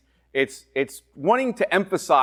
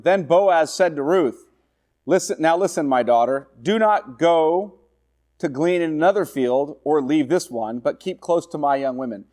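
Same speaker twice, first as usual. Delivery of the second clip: scripture reading; 2 semitones higher than usual. Acted. Preacher reading Boaz's instruction to Ruth. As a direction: lean on "do not go".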